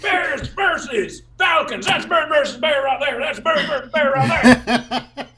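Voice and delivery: loud, slow, high sportscaster yell; roaring the matchup; hyped shout. Acted. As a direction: bellow it like a pumped-up fan.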